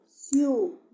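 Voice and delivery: "ciudades" slowly, as ciu... da... des; split into syllables. Shown as a demonstration. Teacher showing pupils the diphthong, "ciudades" syllable by syllable. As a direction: break "ciudades" into three separate, firm syllables. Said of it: "lo separo en sílaba".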